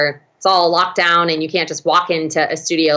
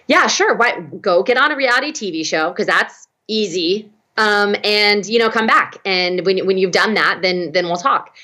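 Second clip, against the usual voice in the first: sarcastic. Retold or imitated. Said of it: "he responded and said".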